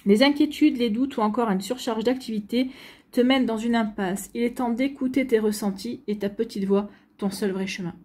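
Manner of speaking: reading a card message aloud to the viewer. Acted. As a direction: read the card's message like an oracle.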